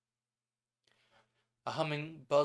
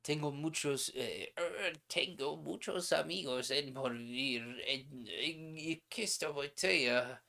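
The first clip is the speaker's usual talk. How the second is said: put-on old hotel keeper voice; 3 semitones higher than usual. Old hotel keeper speaks again.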